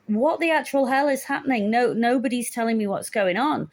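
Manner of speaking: replayed outburst of confused alarm; retold alarm. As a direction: act out baffled panic, demanding answers. Recalls alarm while being needled.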